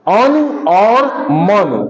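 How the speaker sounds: अनु और मनु said word by word, each u short; short u ending. Shown as a demonstration. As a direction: cut the final u of अनु and मनु quickly. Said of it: "तेज होगा". (अनु और मनु में छोटा, तेज़ उ)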